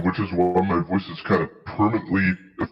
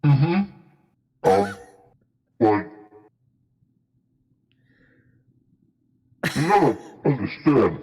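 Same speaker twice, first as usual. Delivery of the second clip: chewing while talking; words around a bite of food; mouth full; 3 semitones higher than usual. Real, not acted. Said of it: "Are you eating?".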